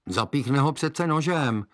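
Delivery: put-on girl's voice. Girl answers witch.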